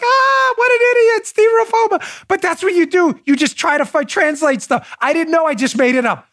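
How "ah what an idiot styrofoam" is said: high, loud mock jeer; mocking laughter. Boat crew mocking his bad Spanish, high and loud. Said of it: "Everybody was like".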